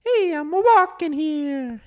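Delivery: high, slow, put-on Brooklyn accent; slow, high Brooklyn cartoon Italian; Mario's Brooklyn accent. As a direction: ham up a cartoon Brooklyn plumber. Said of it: "That's why he always says".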